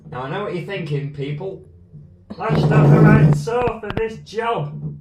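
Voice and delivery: broad Northern English voice, half joking; northern accent. Pretend. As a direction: slip into a Yorkshire-ish twang. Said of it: "I don't know why I've gone northern".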